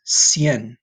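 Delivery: Cien in one syllable, falling; Spanish cien. Shown as a demonstration. Teacher modelling Cien for students, clear Spanish. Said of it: "this is how you're gonna say it".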